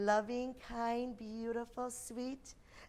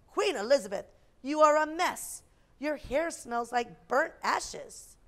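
rude prince; 3 semitones higher, 5 dB louder than usual. Acted. Rude prince scolds her.

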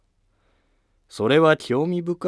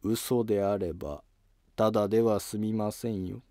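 quiet threat; 6 dB quieter than usual. Acted. Courtier quietly warning the minister not to lie. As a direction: drop the voice and threaten. Warning against a forged will.

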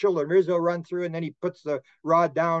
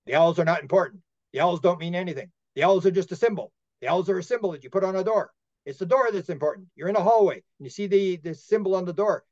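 raised, insistent channeled pronouncement; channeling; 3 semitones higher than usual. Retold or imitated. Entranced man explaining the owl symbol, channeling. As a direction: deliver it as a revelation, phrase by phrase. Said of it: "then he starts channeling".

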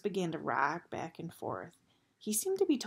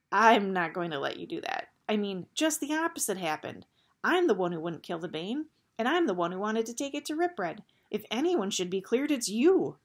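firm refusal; 2 semitones higher, 5 dB louder than usual. Acted. Gregor refuses Eris's plan.

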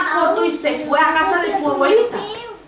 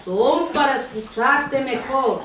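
very slow wolf reply; slow, drawn-out storybook wolf; disguised wolf; slower than usual. Acted. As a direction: stretch every word out as the wolf. Wolf answers as false grandmother.

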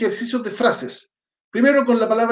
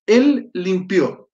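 slow, drawn-out teacher model; slow model line; much slower than usual. Shown as a demonstration. Teacher models the Arabic verb's meaning for the class, slowly. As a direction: stretch it out so students catch each word.

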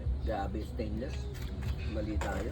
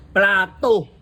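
laughing; 4 semitones higher, 9 dB louder than usual. Real, not acted. Laughing at the plate trick.

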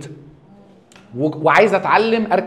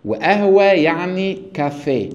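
slow demo; slower than usual. Shown as a demonstration. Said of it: "اقول لك مثلًا".

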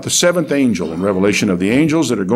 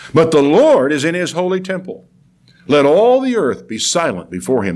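emphatic, higher-pitched preacher's reading; declamatory Bible reading; scripture reading; 6 semitones higher than usual. Acted. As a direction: proclaim the prophet's words with weight. Reads scripture aloud to congregation.

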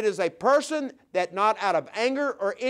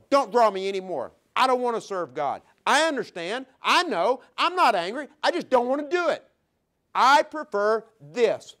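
higher, calm, settled rejection of God; calm refusal; 4 semitones higher than usual. Acted. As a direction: turn God down without anger. Sinner calmly refusing God.

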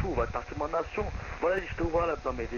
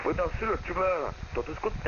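voice changer; 2 semitones higher than usual. Acted. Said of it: "ça sert à rien d'utiliser des modificateurs de voix".

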